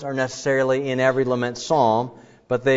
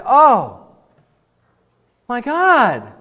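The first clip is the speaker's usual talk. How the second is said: higher, louder pleading cry; anguished cry to God; 11 semitones higher, 7 dB louder, much slower than usual. Shown as a demonstration. Psalmist crying over and over to God, anguished. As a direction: cry out from real distress. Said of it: "it's appropriate to say".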